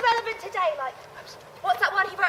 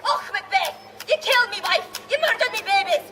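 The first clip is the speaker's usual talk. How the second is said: put-on Scottish accent; 3 semitones higher than usual. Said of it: "perfect Scottish accents".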